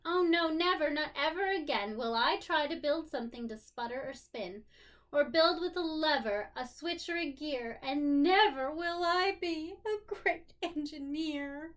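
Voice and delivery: put-on a kid swearing off inventing, upset; upset child voice. Rosie vowing to quit after the crash, upset. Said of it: "who thought".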